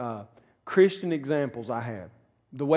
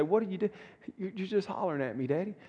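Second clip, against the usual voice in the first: put-on softer, higher little child's voice, lightly hurt; imitating child; 4 semitones higher, 7 dB quieter, faster than usual. Preacher's child complaining that daddy is hollering, mild childlike voice. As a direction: voice a wounded kid, quietly. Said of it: "and I say".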